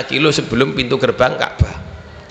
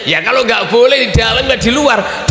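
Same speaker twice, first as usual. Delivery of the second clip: retold insistent shout; 7 semitones higher than usual. Quoting his own insistent reply.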